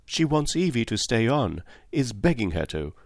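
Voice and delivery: a hint of a lively young girl; young Cynthia. Cynthia voiced by narrator.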